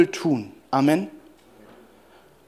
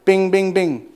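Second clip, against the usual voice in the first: mock bell sound; slower than usual. Shown as a demonstration. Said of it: "Du bist nur eine Glocke".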